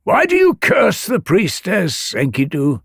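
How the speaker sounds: high, ringing reproachful question; calling down. A narrator's reading. Sun god challenges the man's curse, calling down. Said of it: "the sun god called down to him".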